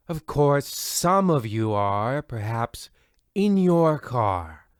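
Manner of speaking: smooth radio host voice, even and unhurried; radio announcer. Acted. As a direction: welcome the listeners like an old radio host. Radio host opening the show.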